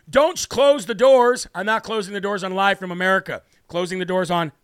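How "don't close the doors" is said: slow, louder mock plea; mock pleading. Host imitating fans begging him not to quit, mock plea. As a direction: plead like a worried fan. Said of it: "people freaking out saying".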